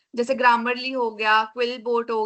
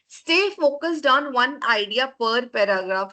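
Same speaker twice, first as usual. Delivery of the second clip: slow dictation; much slower than usual. Shown as a demonstration. Teacher dictates key rule slowly.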